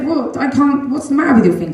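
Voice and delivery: the moment she can't believe it; mother startled by her son's finger. Retold or imitated. Mother's retold startled reply.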